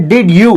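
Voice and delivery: "did you" with a clear d, then you; separate words. Shown as a demonstration. Teacher quoting the common textbook form, unblended. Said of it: "They don't speak did you".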